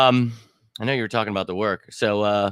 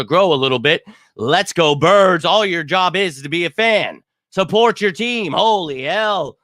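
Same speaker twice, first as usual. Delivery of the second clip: rallying shout; 5 semitones higher, 4 dB louder than usual. Real, not acted.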